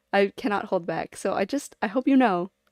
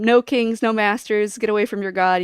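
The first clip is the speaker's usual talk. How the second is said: louder, rallying mock yell; mock scream at the cleric; 5 dB louder than usual. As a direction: cheer them to rebel, half-joking. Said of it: "I scream at them".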